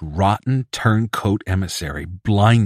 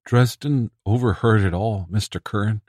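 ingratiating; 3 semitones higher than usual. Acted. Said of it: "in a pathetically ingratiating tone".

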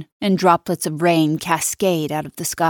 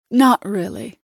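Nina's cold voice; 5 semitones higher than usual. Acted.

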